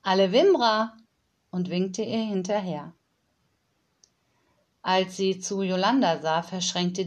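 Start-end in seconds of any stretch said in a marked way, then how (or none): 0.0-1.0 nanny answering. Acted. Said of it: "Frau Honig antwortete".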